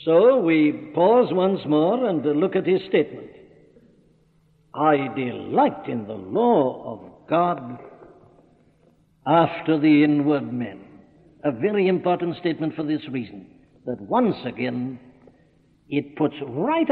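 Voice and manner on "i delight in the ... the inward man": slow, deliberate reading with weight on "delight"; stress on delight. Shown as a demonstration. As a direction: read it slowly, leaning firmly on "delight". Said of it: "I'm emphasizing the word delight".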